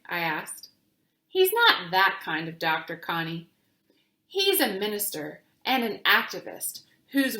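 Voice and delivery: put-on gentle storytelling voice for children; reading a picture book aloud. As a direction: read it like story time, clear and calm.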